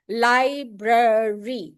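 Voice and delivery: very slow, chin dropping on each beat; syllable demo. Shown as a demonstration. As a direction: pull library out into beats. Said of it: "every time your chin moves down".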